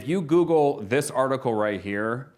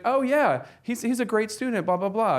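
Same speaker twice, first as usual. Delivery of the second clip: much higher, bright praise of a student; imitating the teacher raving about a student; gushing teacher; 10 semitones higher than usual. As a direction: gush like a proud teacher.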